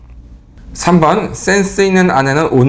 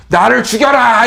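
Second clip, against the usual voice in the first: mock outburst; 7 semitones higher, 5 dB louder, slower than usual. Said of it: "이랬잖아요".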